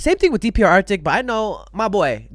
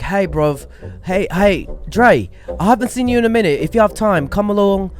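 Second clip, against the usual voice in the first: terrible Ian impression. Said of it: "is a terrible Ian impression".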